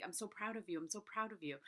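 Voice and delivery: put-on softly praising, like to a child; a gentle parent reassuring; tender praise to kids. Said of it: "we say to our kids".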